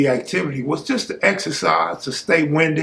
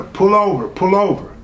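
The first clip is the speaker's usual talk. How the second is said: retold police order; 6 semitones higher than usual.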